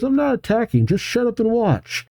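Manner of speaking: high-pitched defensive snap; acted huffy comeback; irritated retort. Gold retorts to the officer.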